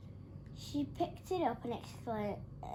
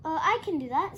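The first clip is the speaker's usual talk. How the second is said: higher, louder, eager; excitedly; 5 semitones higher, 9 dB louder than usual. A narrator's reading. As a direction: jump in eagerly. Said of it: "said Rupert excitedly".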